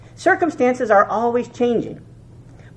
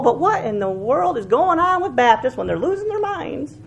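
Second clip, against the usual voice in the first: ordinary talk, nothing marked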